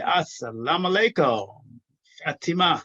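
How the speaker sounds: normal talking voice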